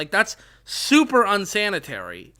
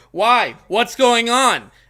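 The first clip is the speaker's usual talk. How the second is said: bellowing at full volume, loud and drawn-out; 4 semitones higher, 7 dB louder than usual. Retelling a scene where a character is told to be quiet: imitating a shout. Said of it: "at, like, full volume".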